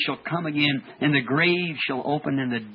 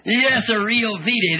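exultant shout; 6 semitones higher, 6 dB louder, much slower than usual. Real, not acted. Preacher exults over his V-Day.

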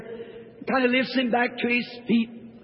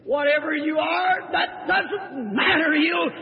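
fiery preaching. Acted. Preacher lifting the congregation tonight, full revival force. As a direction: drive it home to the congregation.

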